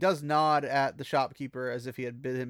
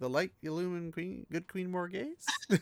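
unsure, hopeful, pitched-up, rising at the end; 5 semitones higher, 5 dB quieter than usual. Retelling how a shopkeeper said a line, acting out a hopeful line. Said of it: "he's saying that hopefully".

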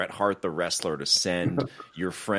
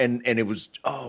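plain

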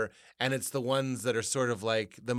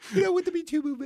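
very high, fast, strained impression voice. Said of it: "he does it always like that way".

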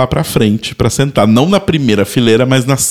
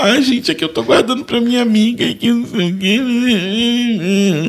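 very high, drawn-out, weepy, half-crying teary whine; 10 semitones higher, 3 dB quieter than usual. Retelling how a woman answered, nearly crying, about her saved seat: imitating someone half-crying. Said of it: "ela meio que começou a meio que chorar".

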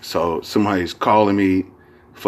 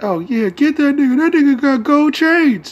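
very high-pitched, squeaky, joking put-on falsetto; 4 dB louder than usual. Recalling an old joke, the speaker is imitating a high-pitched voice. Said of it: "the high pitched voice that he used".

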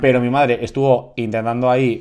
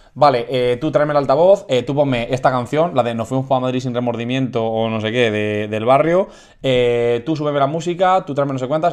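ordinary talk, nothing marked

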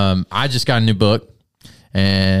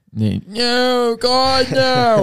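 whiny put-on voice, higher. Voicing the Israelites complaining to God: whining voice. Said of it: "this whining voice in the background".

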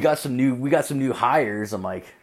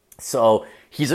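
plain

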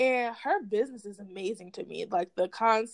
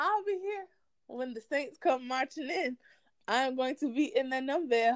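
little Louisiana accent, lightly done; 4 semitones higher than usual. Chatting about an upcoming event, in a Louisiana accent. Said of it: "i like your little uh, louisiana accent".

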